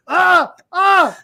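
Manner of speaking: two loud, high cries of alarm; startled cries. Retold or imitated. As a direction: yelp in mock shock, twice. Retells startled reaction while driving.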